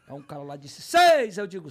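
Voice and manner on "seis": high, loud call; imitated auction shout; shouted rival bid. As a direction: yell it like a rival bidder.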